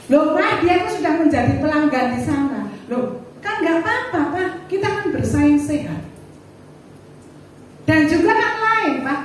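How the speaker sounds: husband protesting. Retold or imitated. Husband defending himself to his wife, mildly heated. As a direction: push back on her, a touch heated.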